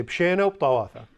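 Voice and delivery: "Pshena uptawatha" 慢慢念给大家跟读; model reply. Shown as a demonstration. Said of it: "everyone say".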